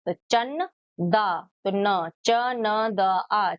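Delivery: put-on teacher splitting the word for children; syllable by syllable. Shown as a demonstration. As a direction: split चंदा slowly into चन दा and च न द आ. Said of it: "ये किसकी sound देता है?".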